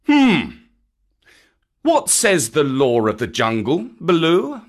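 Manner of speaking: stern panther with a high, loud hum first; Bagheera. Acted. Bagheera asks Baloo for the law, stern. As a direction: pose the question pointedly.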